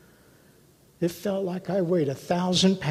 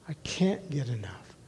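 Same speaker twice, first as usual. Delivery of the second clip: soft echo; 6 dB quieter than usual. Real, not acted. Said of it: "I read it 'cause I can't get enough".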